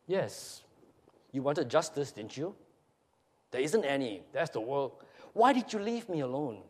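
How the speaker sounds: subdued, mournful dramatic reading; firm accusation softening into confession; estranged couple's reunion. Acted. Reads final scene of husband, wife.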